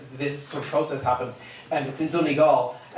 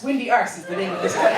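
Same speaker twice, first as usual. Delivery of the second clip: laughing; 4 semitones higher, faster than usual. Real, not acted. Punchline, laughing.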